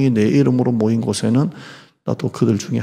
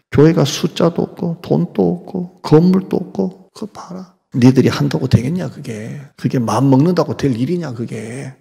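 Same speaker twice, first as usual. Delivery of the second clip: scornful, higher jeering voice; taunting the weak believers, mocking; 3 semitones higher than usual. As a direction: sneer it like an enemy mocking. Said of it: "이렇게 조롱을 합니다".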